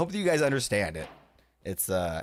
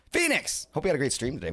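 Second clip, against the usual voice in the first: Ellie impression; 5 semitones higher than usual. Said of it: "my Ellie Beatmaker impression".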